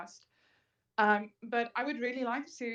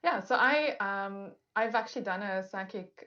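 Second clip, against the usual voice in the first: muffled. Real, not acted.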